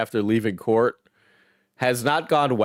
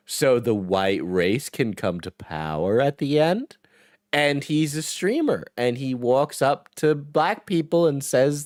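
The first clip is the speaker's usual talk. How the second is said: kindergarten teacher voice. Real, not acted. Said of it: "racist streamer to us with kindergarten teacher voice?".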